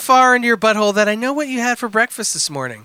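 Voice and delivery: deliberate storytelling delivery, rising then dropping away; dramatic letter reading. Acted. Reading a crude missed-connection letter to co-hosts, mock-dramatic. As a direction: read it out with mock-serious drama.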